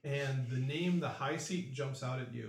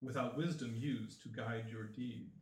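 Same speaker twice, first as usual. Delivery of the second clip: solemn chanting prophecy; mystic oracle voice; 2 semitones lower than usual. Acted. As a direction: intone it like an ancient seer.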